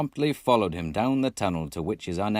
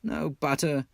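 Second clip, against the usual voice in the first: higher, louder, relishing each item; playful teasing; mock-grand list; 5 semitones higher, 3 dB louder, slower than usual. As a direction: roll out the luxuries with gusto. Rat mock-lists missing luxuries.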